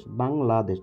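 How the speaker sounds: "বাংলাদেশ" in three beats, বাং, লা, দেশ; split into syllables. Shown as a demonstration. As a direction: separate each syllable of "বাংলাদেশ". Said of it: "তিনটা অক্ষর আছে".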